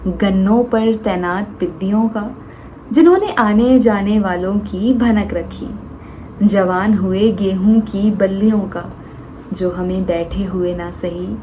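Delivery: measured, earnest Hindi poetry reading with pauses; poem recitation. Acted. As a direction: farewell poem spoken to a dear friend.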